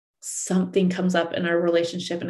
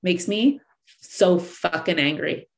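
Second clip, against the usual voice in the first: mock furious rant. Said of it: "all of a sudden you're like".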